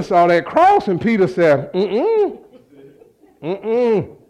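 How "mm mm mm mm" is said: short hummed uh-uh, quick falling; mock refusal. Peter backing away at the cross, mock refusal. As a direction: hum a comic little denial.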